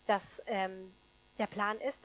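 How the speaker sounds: normal talking voice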